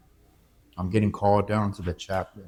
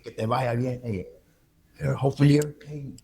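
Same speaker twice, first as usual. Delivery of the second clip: higher, mock-cheerful send-off; sarcastic well-wisher voice; mock farewell; 6 semitones higher than usual. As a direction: imitate society waving him off. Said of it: "they throw you out there. Like".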